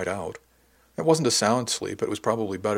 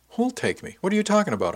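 higher-pitched, baffled questioning; puzzled protest, pitched well up; 11 semitones higher than usual. A narrator's reading. Shipmate told he'll be taken along, baffled.

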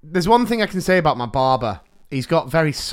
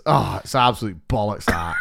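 Ferguson impression; 7 semitones lower than usual. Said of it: "he just turns around and goes".

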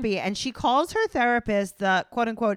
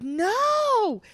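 put-on grossed-out teen girl; 6 dB louder, much slower than usual. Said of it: "she was like".

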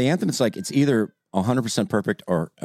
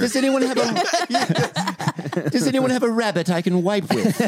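high squeaky voice; 13 semitones higher, slower than usual. Acted. Squeaky character voice asking.

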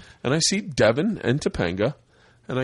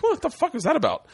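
high-pitched baffled question; mock disbelief, pitched up; retold indignant puzzlement; 13 semitones higher than usual. Reacting to the actress's snub, high and baffled.

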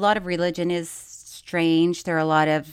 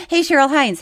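laughing; 5 semitones higher, 6 dB louder than usual. Retold or imitated. Laughing while quoting herself.

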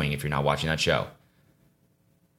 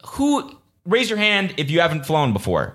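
mock announcer; 10 semitones higher than usual.

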